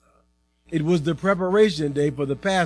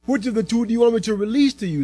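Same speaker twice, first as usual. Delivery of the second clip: a hint of a questioning governor, higher and quick; lightly voiced governor; 7 semitones higher, faster than usual. A narrator's reading. Pilate asks the crowd whom to release, questioning. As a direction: lift the pitch and put it briskly to them. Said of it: "the governor said".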